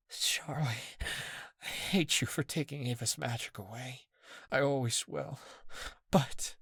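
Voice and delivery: soft, breathy despair; the anger drained out of you; despondent. A narrator's reading. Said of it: "from furious to despondent".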